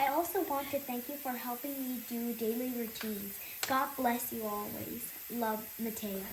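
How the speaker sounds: reading a love letter. Real, not acted. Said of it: "Here's the letter I gave you".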